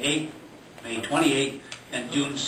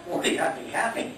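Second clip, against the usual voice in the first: laughing; 10 semitones higher than usual. Real, not acted. Joking about turning forty.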